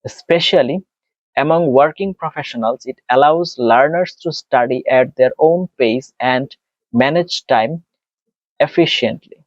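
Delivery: slow, careful exam reading of a passage; model read aloud. Shown as a demonstration. Teacher reading a sample passage to students, slow and careful. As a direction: read it out evenly, phrase by phrase, slowly. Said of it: "আমরা একটু পড়ি দেখেন".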